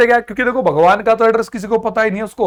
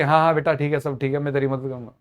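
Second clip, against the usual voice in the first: mock reassurance; 4 semitones lower, 6 dB quieter, faster than usual. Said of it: "कि कुछ भी लिख के".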